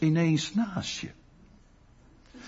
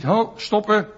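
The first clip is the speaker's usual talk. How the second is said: loud, brisk marching orders; bossy command; 2 semitones higher, 5 dB louder than usual. Retold or imitated. Preacher voicing an imagined stern Jesus, mock commanding. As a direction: bark it like a drill sergeant turning them round. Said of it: "Die zegt niet".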